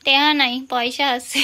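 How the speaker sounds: Bangal টেহা নাই, টাকা said as টেহা with an h; Bangal dialect. Shown as a demonstration. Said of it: "এই টেহা আছে". (বাঙাল ভাষায় টেহা নাই বলা)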